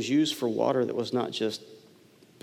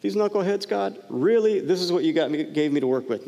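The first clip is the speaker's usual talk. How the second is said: high, exasperated grumble to God; exasperated complaint; 5 semitones higher than usual. Pretend. Moses grumbling to God about the people, exasperated. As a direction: complain like a fed-up leader. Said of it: "He's not like".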